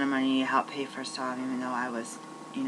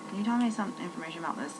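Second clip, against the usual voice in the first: polite asking voice; 6 semitones higher, faster than usual. Retold or imitated. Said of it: "I've asked people".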